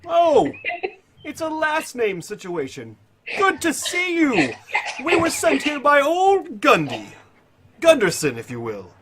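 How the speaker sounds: very high, drawn-out flamboyant voice; Tiberius. Acted. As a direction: greet grandly, stretching the words out high. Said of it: "it's Tiberia's voice".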